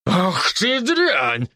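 very slow growled curse; growling curse. A narrator's reading. Drunk man lunges at girl, growled slow curse. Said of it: "зарычал мужчина".

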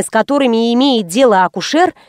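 usual speaking voice

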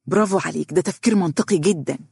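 mildly eager approval; enthusiastic. Acted. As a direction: cheer him on with a touch of enthusiasm. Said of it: "رد الدنيا بحماس". (بحماس خفيف)

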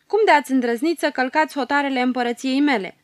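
a character challenging trespassers angrily; snapping angrily. Acted. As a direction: snap at the intruders. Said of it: "întreabă răstit".

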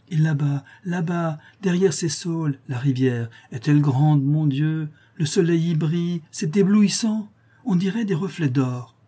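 delighted. A narrator's reading. Fleur de Marie delighted by river.

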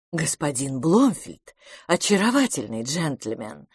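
plain reading voice

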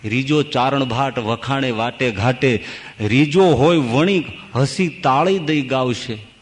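slow, measured couplet at an even level; verse recitation. Acted. Preacher moves on to bard and merchant, reciting verse. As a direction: recite it steadily, stretching the metre.

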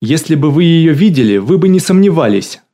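gushing excitement. Acted. Галина gushing about Annie to the caller, high, loud excitement. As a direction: gush over her darling dog.

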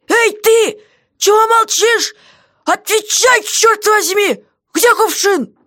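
jailer's voice, cross and insistent; angry jailer. Acted. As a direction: bark at the silent prisoner. Guard voiced by reader.

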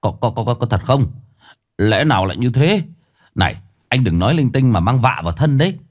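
stammered disbelief turning into a quick rebuke; agitated challenge, mildly sharp; urgent, scolding questioning. Acted. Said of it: "sốt sắng hỏi như quát".

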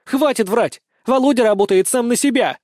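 high, loud furious cry; angry shout. A narrator's reading. Daughter calling her father a liar, loud and angry. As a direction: stamp your foot in the voice. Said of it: "Алиса даже топнула ногой".

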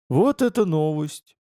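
slow, dazed surprise; taken aback. Acted. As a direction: let the news catch him off guard. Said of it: "оторопело отозвался литературный агент".

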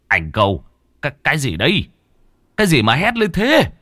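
stammer, then rise to a high, alarmed demand; startled questioning. A narrator's reading. Startled elder asking why his companion screamed, alarmed and high. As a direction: ask in alarm, pitch climbing sharply.

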